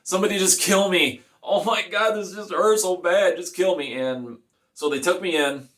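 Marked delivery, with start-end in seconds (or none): 0.0-3.9 high-pitched, desperate mock yell; retold yelling. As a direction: re-enact yelled begging without full force. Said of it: "screaming and I'm yelling".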